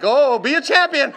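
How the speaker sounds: acting out an expectant owner urging her on; coaxing exclamation. Owner watching his new horse in the pen, coaxing exclamation. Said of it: "I'm standing there watching her like".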